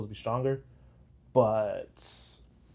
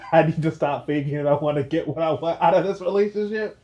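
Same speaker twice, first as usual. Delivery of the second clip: lightly acted relationship complaint, raised pitch; hammed-up confession, louder and higher; mock confession; 5 semitones higher, 6 dB louder than usual. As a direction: play a fed-up partner, mockingly. Voices innuendo parody of character.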